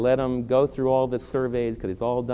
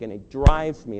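emphatic loud repeat; 7 dB louder than usual. Real, not acted. Repeated phrase, first said loud.

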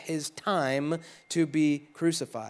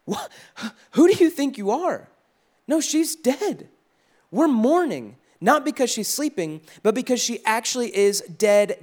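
scornful crowd; 3 semitones higher than usual. Retold or imitated. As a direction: scoff at him like he's lost his mind. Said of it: "This is scorn".

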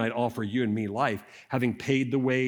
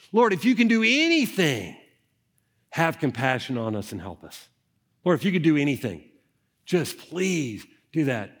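desperate father; 3 dB louder than usual. Acted. Desperate father begging Jesus.

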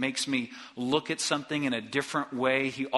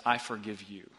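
sincere forgiveness; 3 semitones lower, 3 dB quieter than usual. Shown as a demonstration. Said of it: "might sound like this".

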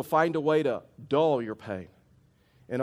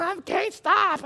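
slow, much higher, breaking into laughter; laughing; much slower than usual. Real, not acted. Pastor recalling how funny he was, laughing. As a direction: let the giggle take over. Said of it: "I have never been funnier in my life".

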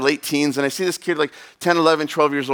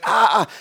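pained yelp; 7 semitones higher than usual. Retold or imitated. Kid burned by spilled coffee.

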